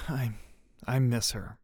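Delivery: soft, halting words after a sob; sobbing. A narrator's reading. Doug missing Charlene, sobbing. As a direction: break into a small sob, then speak softly. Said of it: "but a sob burst out".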